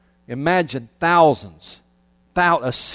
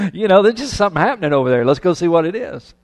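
curious bystander; 4 semitones higher, 5 dB louder, faster than usual. Acted. Voices clueless people joining the crowd.

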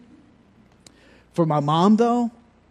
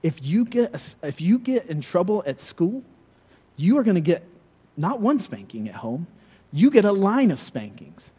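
warning mom; 3 semitones higher than usual. Retold or imitated. Mother warning her son after school, mildly stern. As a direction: warn your son in a lightly voiced mom voice. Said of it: "she said".

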